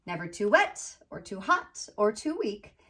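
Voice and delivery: picture-book read-aloud, landing gently on the rhymes; storybook narration. A narrator's reading. Author reading her children's book about a little tree, storybook narration. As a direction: read to children with lilting, measured phrasing.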